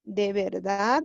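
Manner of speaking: "De verdad" as a question, rising on "verdad"; questioning intonation. Shown as a demonstration. Teacher repeating the example question for students, questioning intonation. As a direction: ask "De verdad", lifting the end of "verdad". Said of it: "Es una pregunta".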